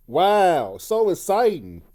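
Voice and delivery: dry mock enthusiasm, drawn out; sarcastic. Real, not acted. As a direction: sneer it, clearly unimpressed. Sarcastic reaction to Gunther.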